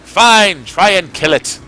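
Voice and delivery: high, loud frantic phone yelling; cartoon caller voice. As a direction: shout down a bad phone line. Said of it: "his end is like".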